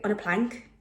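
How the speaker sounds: bad Welsh accent that slips into Irish; botched Welsh impression sounding Irish; attempted Welsh accent. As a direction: softly try a Welsh accent, landing on Irish. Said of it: "can't even do a Welsh accent if I tried".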